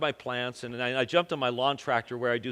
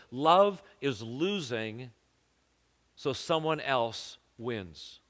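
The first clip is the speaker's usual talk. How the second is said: slow, deliberate; 2 semitones lower, 3 dB quieter, slower than usual. Shown as a demonstration. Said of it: "would sound like this".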